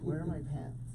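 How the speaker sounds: soft, low hungover grumble; hungover mumble. Acted. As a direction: grumble it through a hangover.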